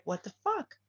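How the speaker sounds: high-pitched disbelieving what the fuck; crowd's stunned reaction; shocked outburst. Retold or imitated. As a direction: squeak it out in disbelief.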